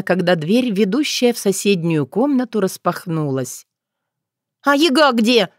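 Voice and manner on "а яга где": mild anger. A narrator's reading. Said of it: "Девица с гневным стуком".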